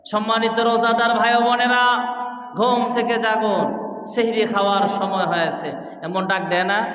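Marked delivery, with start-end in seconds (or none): 0.1-5.7 muezzin's call. Retold or imitated. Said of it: "মুয়াজ্জিন সাহেব দেয়".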